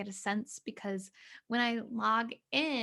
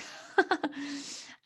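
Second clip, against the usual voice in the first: short, higher chuckle; amused laugh; 5 semitones higher than usual. Real, not acted. Host on the trouble with the delay, amused laugh. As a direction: laugh off the hiccup.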